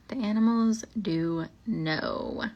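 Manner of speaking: drawn out and hushed like a ghost story; slow ominous. Acted. Repeating the line slowly to spook listeners, ominous. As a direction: let it hang, slow and eerie.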